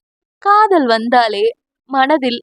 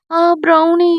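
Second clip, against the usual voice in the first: fake whimper; 4 semitones higher than usual. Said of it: "வேண்டுமென்றே சினுங்க".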